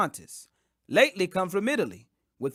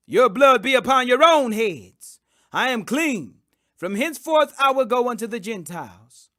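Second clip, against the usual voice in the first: louder, higher, defiant proclamation; stern rebuke; 4 semitones higher, 7 dB louder than usual. Acted. Paul shaking his raiment at the blasphemers, loud stern rebuke. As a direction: cast the blame back on them with force.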